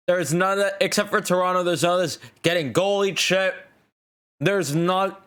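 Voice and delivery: talking with gum in mouth; words round a wad of gum; chewing gum. Real, not acted. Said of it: "I have gum in my mouth".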